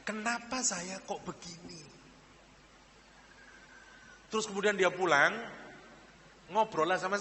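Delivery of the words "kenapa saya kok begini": quiet lament. Retold or imitated. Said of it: "dia nangis kepada Allah".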